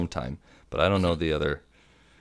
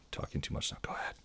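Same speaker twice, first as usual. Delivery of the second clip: sheepish whisper, much softer; worried whisper; 15 dB quieter, faster than usual. Real, not acted. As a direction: drop to a whisper, apologizing. Apologizes for talking too much.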